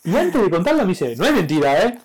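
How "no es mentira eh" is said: little nephew. Retold or imitated. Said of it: "parece mi sobrino Salvador".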